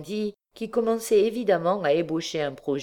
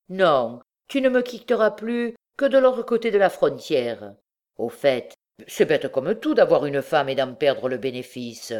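domineering bandit; 4 dB louder than usual. Acted. Bandit laying down the law.

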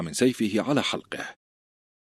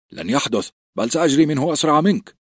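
a touch of stubborn insistence, rising louder; insistent; 7 semitones higher, 4 dB louder than usual. A narrator's reading. A recruit insisting to his teasing friend, mildly stubborn. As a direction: insist firmly, lightly voiced. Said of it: "قال جيرن بإصرار".

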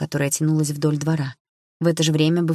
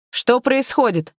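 higher, louder, slow demanding call; loud question; 8 semitones higher, 5 dB louder, slower than usual. A narrator's reading. Narrator calls out to the quarrelling couple, loud and slow. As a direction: call across the yard to stop them. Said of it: "громко спросила я".

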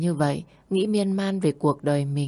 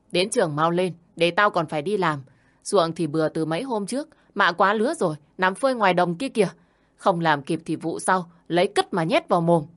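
mild mock shout, hurrying the children off; shouting at the kids. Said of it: "vừa đi vừa quát lớn".

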